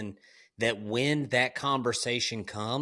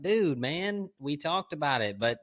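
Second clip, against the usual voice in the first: higher-pitched retold pleading; pleading father; 5 semitones higher than usual. Father to screaming son after punishment, mildly pleading. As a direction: reason with a kid, mildly exasperated.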